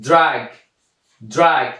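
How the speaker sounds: "درگ" begun with a clear D sound; careful teacher demo of "درگ" with initial D; D as dal. Shown as a demonstration. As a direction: model "درگ" as an example of the D sound. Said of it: "دی ما در اول آمده صدای دال داده".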